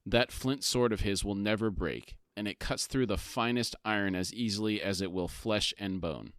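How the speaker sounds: measured read-aloud summary; story narration. A narrator's reading. Co-host reads the book summary to his partner, story narration. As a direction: narrate the scene with deliberate phrasing.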